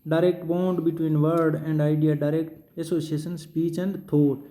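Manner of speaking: dictating the heading at very slow pace; drawn out word by word for note-taking; teacher reading a heading slowly for notes. Shown as a demonstration.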